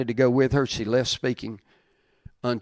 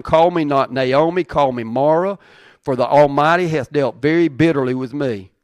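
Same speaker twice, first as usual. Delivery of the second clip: loud scripture reading; 6 dB louder than usual. Acted. Preacher reading Naomi naming herself Mara, loud and declaiming. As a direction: proclaim the verse with force.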